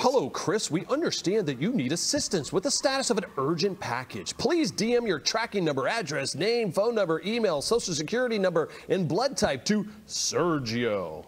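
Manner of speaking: polite scripted support voice; customer service voice. Retold or imitated. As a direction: read it like a canned help reply. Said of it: "in the customer service voice".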